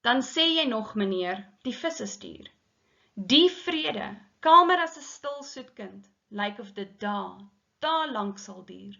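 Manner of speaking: measured Afrikaans verse reading; deliberate recital with emphatic line openings; poem recitation. Acted. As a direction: read the poem aloud, pausing between phrases. Reads the Afrikaans poem aloud.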